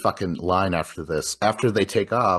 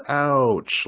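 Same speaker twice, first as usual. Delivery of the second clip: put-on higher, drawn-out kid's cry; little kid voice; 5 semitones higher than usual. Podcaster imitating the creepy caller for a co-host, light kid voice. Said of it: "a little kid voice".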